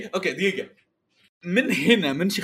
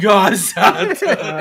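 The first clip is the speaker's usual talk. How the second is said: laughing; 5 dB louder, much slower than usual. Real, not acted. Laughing at a pick.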